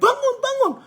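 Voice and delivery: high, scolding yell; acted indignant shout, pitched high; rough, rude waking. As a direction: berate a sleeper in alarm. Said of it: "kalau yang lebih kasar bilang".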